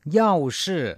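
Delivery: teacher's clear word call; vocabulary model word. Shown as a demonstration. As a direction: announce เย่าชื่อ as the new word. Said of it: "แปลว่าถ้าหากว่า".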